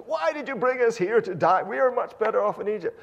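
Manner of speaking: loud, whiny accusing wail; complaining Israelites. Retold or imitated. Israelites accusing Moses of bringing them to die, loud whine.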